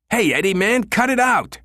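high, strained panicked plea; panicked protest. A narrator's reading. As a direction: beg him to stop, rising alarm. Pinned, panicking at the friend.

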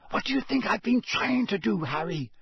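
put-on high, anxious girl's voice; lightly voiced anxious Hermione; Hermione whispering back. A narrator's reading. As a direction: hiss back in exasperation. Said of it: "she whispered back".

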